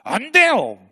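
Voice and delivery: loud, high shout of refusal; angry outburst. Acted. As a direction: Peter explodes at Jesus. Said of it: "승질을 냈어요".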